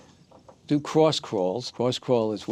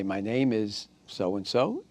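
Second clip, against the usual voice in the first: slow, deliberate; teacher models the test phrase; slow demo statement; slower than usual. Shown as a demonstration. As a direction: state it slowly. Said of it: "say your name and say".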